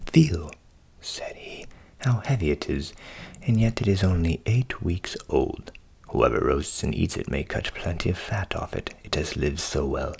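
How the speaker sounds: low voiced boasting countryman; low, proud countryman.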